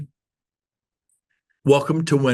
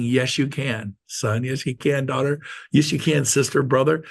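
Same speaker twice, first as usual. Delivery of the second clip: encouraging. Pretend. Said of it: "and I'm saying".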